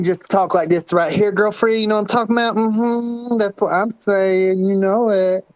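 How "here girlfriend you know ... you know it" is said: sassy voice. Retold or imitated. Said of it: "There he sounds like a singer".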